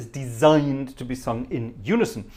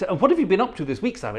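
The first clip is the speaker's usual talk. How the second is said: higher, quick acted question; choir small talk; 6 semitones higher, faster than usual. Choir leader chatting to Simon at practice, higher acted small talk. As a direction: ask chattily in a raised, quicker voice. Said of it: "when you go to choir practice".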